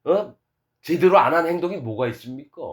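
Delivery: shameless, challenging protest; brazen self-justification. Acted. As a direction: act out a churchgoer confronting God with his merits. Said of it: "하나님 앞에 당당합니다".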